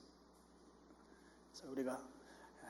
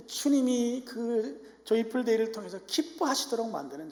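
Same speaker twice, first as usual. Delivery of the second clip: fervent preaching; 9 semitones higher, 7 dB louder than usual. Acted. Preaching at full force.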